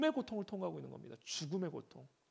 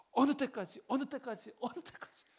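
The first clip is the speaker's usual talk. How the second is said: fading lament; 8 semitones higher, 4 dB louder than usual. Retold or imitated.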